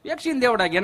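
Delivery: ordinary talk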